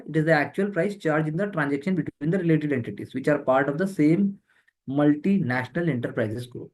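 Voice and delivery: reading a definition out very slowly. Shown as a demonstration. Teacher to exam students, dictating the definition very slowly.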